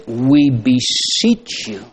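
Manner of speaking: "We beseech you" drawn out slowly, leaning on "We"; slow it down and press "We beseech you"; solemn, deliberate repeat; slow, weighty quote. Shown as a demonstration. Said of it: "He says".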